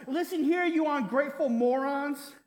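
hammed-up angry outburst at whiners; mock shout. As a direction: playfully scold the ungrateful crowd. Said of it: "we wanna shout".

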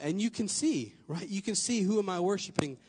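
mic pops on the p sounds; popping p sounds. Real, not acted. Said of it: "Sorry for the popping".

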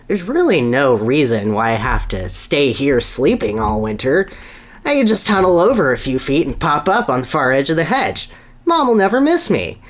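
building to a high, pleased finish; a hint of a cocky young hedgehog; sly scheming kid. Sonny plotting to sneak out, rising glee. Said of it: "he thought".

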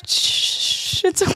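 whispered hush, soft and soothing; quietly calm a friend down. Retold or imitated. Retelling how Jamie soothed her on shrooms, whispered hush. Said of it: "she was just like".

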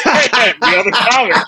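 high-pitched, laughing through the words; real laughter breaking into the line. Real, not acted. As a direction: crack up while telling it. Laughs telling the punchline.

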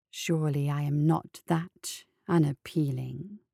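slow oily coaxing. Acted. Follop coaxing slowly.

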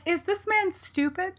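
high, slow incredulous question; imagined baffled reaction; acted incredulity. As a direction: draw it out high in mock disbelief. Voicing a character's predicted reaction.

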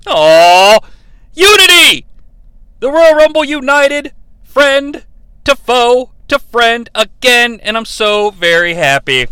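gushing, loud and high-pitched; overjoyed cheer about unity. Real, not acted.

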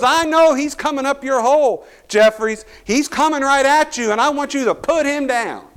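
high, loud urgent orders; coach yelling. Retold or imitated. Coach shouting at his seventh-grader before the play. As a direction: bark the warning and the command. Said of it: "He goes".

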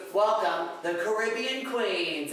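hammed-up welcome over the PA; mock announcer. Crew announcer introduces the group in a grand mock welcome.

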